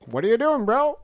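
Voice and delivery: high mock bro voice, pitched well up; chatbot bro voice. Imitating his chatbot talking like a bro, high mock voice. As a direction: play the chatbot as a casual bro, squeaky and high. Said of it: "he's like".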